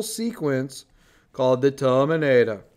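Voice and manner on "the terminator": lightly put-on Austrian action-hero voice; a hint of a movie-robot accent; Arnold Schwarzenegger. Teacher naming the stop sequence, light Schwarzenegger impression. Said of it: "That's my best, uh, Arnold Schwarzenegger voice".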